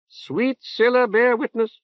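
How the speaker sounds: unctuous prelate, drawn out; reverberant nasal voice. Acted. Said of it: "in a reverberant nasal voice".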